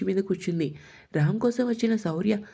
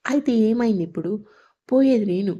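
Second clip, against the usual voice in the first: louder, hurt and defiant; angry retort; 5 dB louder than usual. Acted. Sita snapping back at Ram, loud and angry. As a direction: throw the words back at him.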